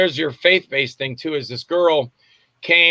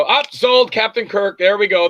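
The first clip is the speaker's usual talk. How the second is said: retold excited yes, pitched up; mock-eager, higher and quick to commit; eager acceptance; 5 semitones higher, 3 dB louder than usual. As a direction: jump at the offer. Retelling his eager yes to offer.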